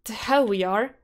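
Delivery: angry denial. Acted. Denying he is like Mark.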